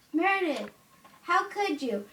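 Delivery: mock-reproachful mom; scolding mother. Acted mother scolding daughter in toy play.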